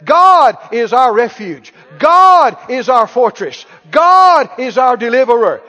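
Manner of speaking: loud, slow, each GOD hit hard; bold declaration. Shown as a demonstration. Preacher showing families what to say, bold loud declaration. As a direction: lead the congregation in a forceful confession. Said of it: "Let's stand up right now and we'll say it".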